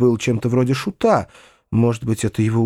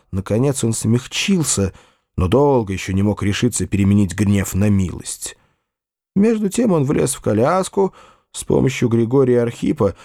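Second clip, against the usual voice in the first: plain reading voice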